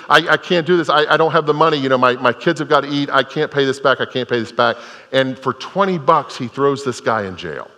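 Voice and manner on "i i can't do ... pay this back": higher-pitched, mildly desperate begging; raised, urgent voice imitating a man begging; retold tearful pleading. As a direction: act out a debtor pleading, not truly crying. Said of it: "he's crying and he's saying".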